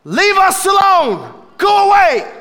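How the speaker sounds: high, loud demonic shout; evil spirit yelling go away; demon hollering. Acted. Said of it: "an evil spirit hollers out".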